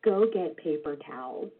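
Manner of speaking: low, quiet, even order from dad; very calm. Retold or imitated. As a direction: calmly send the kid for towels. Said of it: "looked at me very calmly and said".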